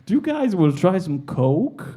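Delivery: mock Yankee girl with high-pitched "oh"; American girl. American girl offering tourists coke in Vegas, in a mock Yankee accent. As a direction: lightly put on an American accent. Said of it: "these two Yankee girls were like".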